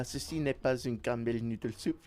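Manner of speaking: badly faked French accent; terrible French accent. Streamer jokingly quoting to viewers, terrible French accent. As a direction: put on a clumsy French accent, lightly. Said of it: "that accent was terrible".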